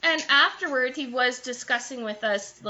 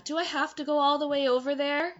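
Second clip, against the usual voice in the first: higher-pitched mock whine, retold; joking complaint; 6 semitones higher than usual. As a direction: imitate a salesman playfully griping. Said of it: "So he was joking".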